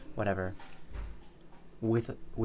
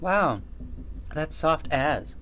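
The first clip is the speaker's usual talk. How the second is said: imitating her Aussie slang, loud and slow; Australian slang quote; 6 semitones higher, 4 dB louder, much slower than usual. Mocking the friend's Aussie slang, loud slow Australian imitation. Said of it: "she says".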